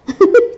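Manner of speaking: a quick rising giggle; brief amused giggle; short laugh. Real, not acted. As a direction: laugh lightly at the memory. Laughing at the ending.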